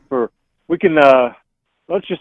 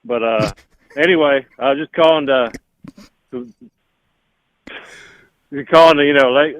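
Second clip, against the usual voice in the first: Impression of a singer. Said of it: "this was a singer".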